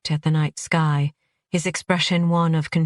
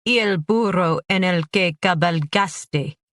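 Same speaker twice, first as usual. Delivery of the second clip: jeering cry. Acted. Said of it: "cried a third".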